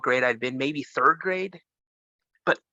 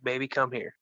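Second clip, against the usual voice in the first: soft, tender grandma; 2 semitones lower, 5 dB quieter than usual. Retold or imitated. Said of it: "with the softest tone of her voice".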